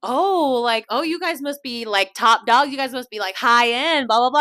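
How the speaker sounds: a hint of an impressed stranger; gushing lady. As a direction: fawn over them a little. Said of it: "she's just like".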